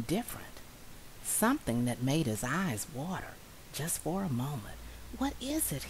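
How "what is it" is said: unvoiced, wondering whisper; whispered thought. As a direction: breathe the question to yourself. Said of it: "he thought".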